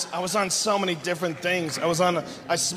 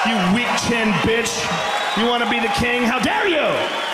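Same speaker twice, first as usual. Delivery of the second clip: mock outrage. Taunting Santorum.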